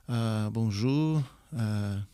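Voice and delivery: hesitant halting French. Retold or imitated. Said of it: "minha dificuldade de já começar a frase".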